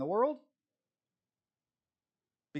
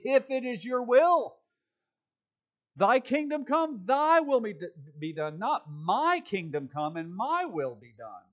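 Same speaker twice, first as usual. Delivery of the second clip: fervent prayer; 5 semitones higher, 7 dB louder than usual. Shown as a demonstration. Preacher showing how every prayer ought to sound, fervent, higher and louder. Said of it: "Every prayer ought to be".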